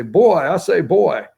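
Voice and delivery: lightly voiced cartoon rooster drawl; a hint of Foghorn Leghorn calling boy. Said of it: "But Foghorn Leghorn".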